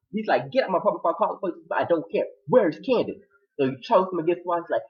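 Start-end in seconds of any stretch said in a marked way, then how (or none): 0.5-3.2 raised-pitch mock argument; heated quarrel. He orders the intruder out, heated. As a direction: argue it out, high and insistent.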